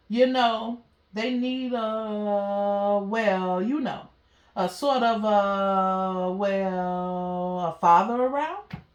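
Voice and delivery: slow, halting tomcat voice, a light touch; hesitant alley cat. Acted. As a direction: fumble for the words, shy and unsure. O'Malley hesitantly hints at staying.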